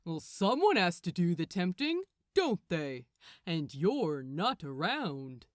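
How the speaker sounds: lightly voiced archangel, a touch of condescension; smug Gabriel. Gabriel needles Crowley about the tempting, mildly smug. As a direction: talk down to him, quick and pleased.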